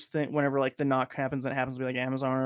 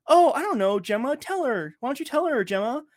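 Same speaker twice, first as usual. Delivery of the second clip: mock deflecting; 10 semitones higher, 4 dB louder than usual. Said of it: "She's like".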